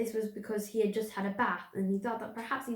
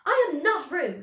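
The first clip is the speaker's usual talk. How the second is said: louder, higher protest; 7 semitones higher, 7 dB louder than usual. A narrator's reading. Piglet insisting to Kanga, loud protest. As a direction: insist loudly. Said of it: "said Piglet loudly".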